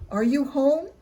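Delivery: loud, high call into the house; hollering for Granny. A narrator's reading. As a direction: shout the question up the stairs. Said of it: "I heard Red call out".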